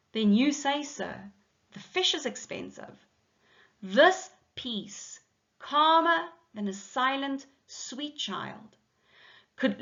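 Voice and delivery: measured verse reading, pauses between phrases; lifted line openings, falling line ends; poem recitation. Acted. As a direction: read the translated poem aloud deliberately. Reads translation of poem aloud.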